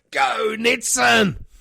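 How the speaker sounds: loud slow cheer, hands up; cheering shout. Pretend. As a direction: belt it out like a fan cheering. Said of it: "Can I put my hands in the air and go".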